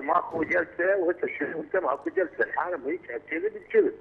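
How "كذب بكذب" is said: sharp, high, angry jab; caller's indignant high jab at lying MPs; indignant outburst. Real, not acted. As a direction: spit it out in disgust. Caller ranting about parliament.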